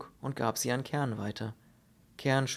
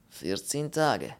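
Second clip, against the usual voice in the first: slow, heavy foreign voice in broken German; slow Polish character voice; 3 dB louder, slower than usual. Acted. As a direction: drag the words out like a doleful Pole. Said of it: "bestätigte der Pole".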